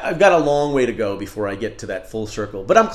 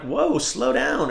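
higher, slow "whoa, slow down"; lightly voiced calming friend; mock friend reaction; 10 semitones higher, much slower than usual. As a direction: play the friend telling him to calm down.

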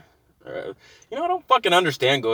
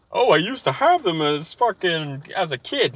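sneering put-on fan voice, a bit higher; mocking fan voice; 4 semitones higher than usual. Mocking the movie star's fan claim, in a sneering voice. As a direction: parrot the fan who claims they loved it as a kid.

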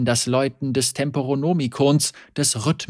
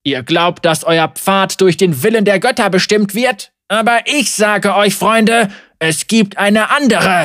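compassionate; 7 semitones higher, 8 dB louder than usual. Acted. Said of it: "voll sanftem Mitgefühl und doch auch mächtiger".

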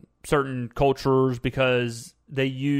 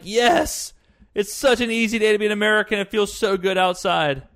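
higher, louder, fast gushing imitation; mock giddy celebration; 5 semitones higher, 3 dB louder than usual. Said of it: "And people are like".

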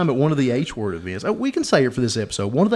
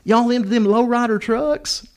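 high, slow imitation of a country woman; hillbilly woman; 9 semitones higher, slower than usual. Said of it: "And she's like".

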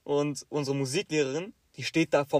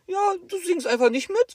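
high, loud repeated brush-off; teacher repeats the brush-off, loud and high; 7 dB louder than usual. Retold or imitated. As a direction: say it again, much louder.

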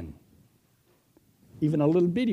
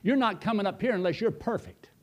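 God refusing; 4 semitones higher than usual. Retold or imitated. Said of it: "And God said".

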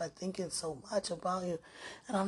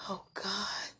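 crying; 6 dB quieter than usual. Real, not acted. Overwhelmed, near tears.

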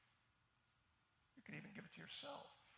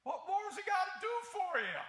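sudden high shout, much louder; 9 semitones higher, 13 dB louder than usual. Real, not acted. Pastor challenging a doubting congregation, shouting the question. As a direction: hurl the question out, exasperated.

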